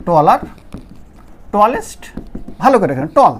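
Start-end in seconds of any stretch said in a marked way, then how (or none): 3.2-3.4 টল as one single unbroken syllable. Shown as a demonstration. Teacher showing learners one syllable, টল in one go. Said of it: "একবারে আমি বলে ফেললাম".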